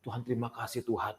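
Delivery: doa syukur pelan; syukur lirih. Retold or imitated. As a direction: ucapkan terima kasih dengan suara turun. Menirukan doa syukur sendiri. (bersyukur dengan lirih)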